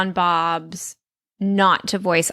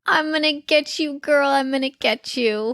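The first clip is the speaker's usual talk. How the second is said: lightly mimicked cartoon catchphrase, a little higher; Zeke impression; 5 semitones higher than usual. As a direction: playfully echo the line you just heard. Mimics Zeke's line from clip.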